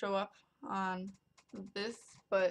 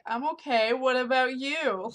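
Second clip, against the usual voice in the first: confused reply; 5 semitones higher, 7 dB louder than usual. Retold or imitated. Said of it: "I'm like".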